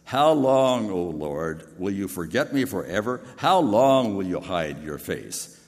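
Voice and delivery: loud anguished plea, the last question slowed; desperate cry. Acted. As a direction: cry out to God from despair.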